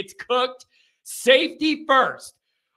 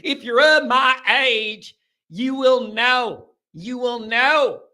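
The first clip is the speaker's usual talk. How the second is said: put-on slow Texas accent, words stretched out; 2 semitones higher, slower than usual. Host repeating himself to older listeners, playful Texas accent. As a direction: linger on each word, Texas style. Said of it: "had a Texas A and M accent".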